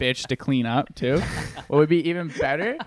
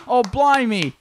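put-on louder, higher Cockney-style "blimey" in an English accent; 8 semitones higher, 6 dB louder, slower than usual. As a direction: exclaim in a hammed-up English accent. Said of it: "one more go in English".

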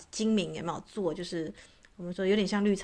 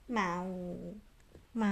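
soft coaxing cat meow; gentle drawn-out kitten meow; imitated sweet meow; 4 dB quieter than usual. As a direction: mew like a sweet little cat. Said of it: "很塞奶的叫声".

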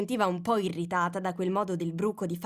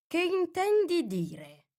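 stern; 11 semitones higher, slower than usual. A narrator's reading. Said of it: "con tono severo".

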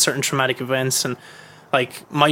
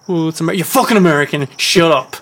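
louder, fast brush-off; dismissive retort; 3 semitones higher, 5 dB louder than usual. Retold or imitated. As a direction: cut them down. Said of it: "it was like".

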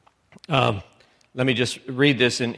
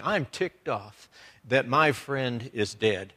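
slow, softer retold indignation; restrained anger; 5 dB quieter, slower than usual. Preacher voicing Jesus angry at his friend's death, restrained anger. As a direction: voice his anger slowly, held down. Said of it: "he snorted in anger".

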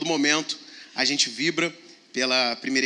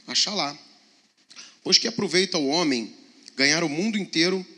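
scripture reading. Acted. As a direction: read the verse with weight. Reads scripture aloud.

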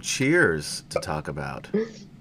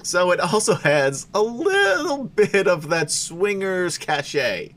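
drawn-out, teasing words with higher pitch; hammed-up hat description; 6 semitones higher, slower than usual. Real, not acted. Host shows off the silly hat to listeners, hammed-up and drawn out. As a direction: stretch it out slowly and grandly.

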